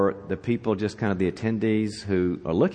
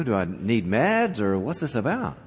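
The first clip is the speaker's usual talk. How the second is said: mildly bewildered questioning; baffled burglar thinking aloud; puzzled, with swooping pitch; confused. Acted. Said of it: "now he's really confused".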